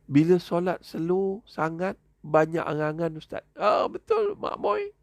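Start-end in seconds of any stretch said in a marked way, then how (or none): 3.6-4.9 excited. Real, not acted. Responding to a viewer comment.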